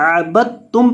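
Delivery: अबदतुम with the द dropped, ब running into त; merged b-t. Shown as a demonstration. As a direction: blend अबदतुम as abbattum. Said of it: "बा को आपने ता के साथ मिलाकर पढ़ना है". (अबदतुम में बा को ता से मिलाकर)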